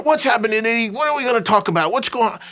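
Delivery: Brian's voice. Retold or imitated. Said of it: "Brian walks in".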